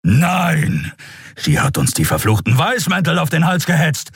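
high, shouted refusal; angry shout. Acted. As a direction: snap back in fury. Keru refuses angrily.

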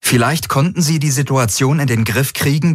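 ordinary delivery, nothing marked

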